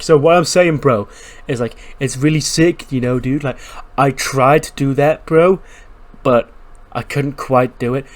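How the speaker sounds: a laid-back surfer bro rambling on; rambling bro dude. Acted. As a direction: drone on like a hyped gym bro. Rambling bro wrestler voiced.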